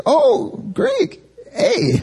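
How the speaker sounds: very high, squealed mock delight; loud mock gloating. Colleague showing off a top Greek grade, loud mock gloating. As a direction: imitate a colleague crowing, pitch way up. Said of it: "Why you gotta talk so loud".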